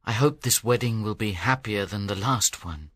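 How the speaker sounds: low, subdued hope; sad. A narrator's reading. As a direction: speak deep and heavy with regret. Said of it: "He looked sadly towards Hero's tomb as he spoke".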